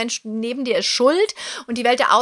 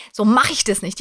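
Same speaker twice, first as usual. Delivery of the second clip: firm table-banging; 5 dB louder than usual. Retold or imitated. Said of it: "richtig auf den Tisch gehauen hab".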